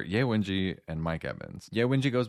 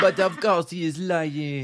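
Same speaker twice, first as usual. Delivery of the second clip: higher, louder hammed-up French accent; quoting the film in a big mock French accent; exaggerated French accent from Harry Potter; movie French accent; 9 semitones higher, 6 dB louder than usual. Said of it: "one of the Harry Potter movies".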